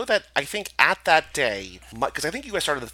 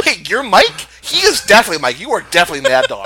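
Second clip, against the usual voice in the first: louder, laughing insistence; 5 semitones higher, 9 dB louder than usual. Real, not acted. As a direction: laugh while declaring it.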